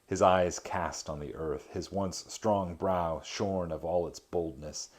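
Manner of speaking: measured reading of an epic poem. A narrator's reading. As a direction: read the verse with gravity. Reads Dante translation aloud.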